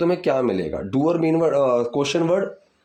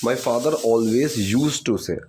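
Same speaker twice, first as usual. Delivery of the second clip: slow dictation; much slower than usual. Shown as a demonstration. Teacher dictates model sentence.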